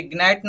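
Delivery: ग्नैट with a hard G sounded; ग्नैट with the G pronounced; wrong pronunciation. Shown as a demonstration. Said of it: "ग्नैट नहीं पढ़ेंगे इसको".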